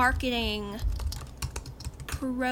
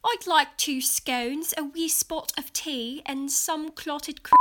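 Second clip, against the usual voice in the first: put-on British accent; 2 semitones higher than usual. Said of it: "accents I can portray authentically".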